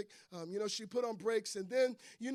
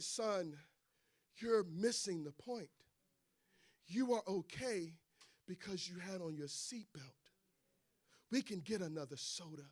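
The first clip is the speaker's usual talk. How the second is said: reassuring mother; 2 semitones lower than usual. Acted. Mother to son after the spill, calm reassurance.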